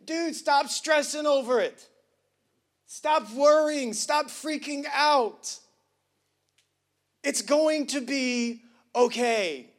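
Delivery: Jesus urging Peter to stop stressing, emphatic. Acted. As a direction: insist like a firm friend. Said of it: "he's telling Peter".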